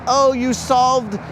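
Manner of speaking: imitated grateful fiancée. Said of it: "And then she'll be like".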